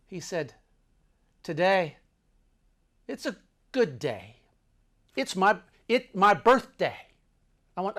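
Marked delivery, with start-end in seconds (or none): 1.4-7.0 put-on halting Russian-accented English, building louder; imitated foreign accent. Drinker tells a stranger it's his birthday, imitated Russian accent. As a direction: imitate a Russian man's English, rising at the end. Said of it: "speaking in English with an accent".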